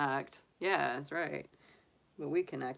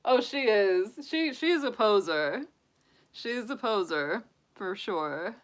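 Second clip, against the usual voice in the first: higher, louder proud gush; excited gushing; 6 semitones higher, 9 dB louder than usual. Real, not acted. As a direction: show her off with glee. Gushing loudly about bunny.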